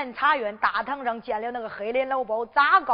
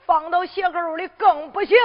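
firm refusal; 5 semitones higher, 4 dB louder than usual. Acted. Godfather refuses her hiding place.

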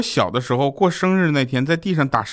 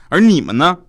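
laughing boast; 8 semitones higher, 6 dB louder than usual. Acted. Boastful punchline to friends.

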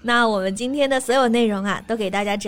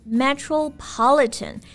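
metropolitan slow, stressed on -PO-; slow model of metropolitan, stress on the third syllable; 2 semitones higher, slower than usual. Shown as a demonstration. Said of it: "重音在第三个音节上".

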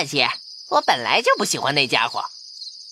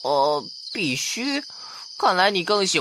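skeptical; 3 dB quieter than usual. Acted. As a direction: question it slyly. Field mouse mocks mouse's duty.

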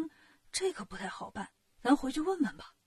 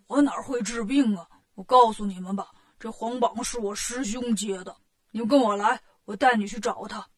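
a touch of Pigsy, slightly lowered with punched phrases; lightly voiced Bajie, protesting; 3 semitones lower than usual. Bajie passes the soldiers on to his brother, mildly protesting. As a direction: explain it away as a lightly played Bajie.

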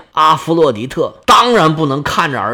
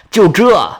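cold sneer. Acted. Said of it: "微微冷笑：".

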